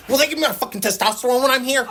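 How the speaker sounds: high, fast voice breaking into laughter; laughing mock impression. Retelling the guy next to him, laughing. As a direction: quote the disturbed guy while cracking up. Disturbed guy asks about testosterone.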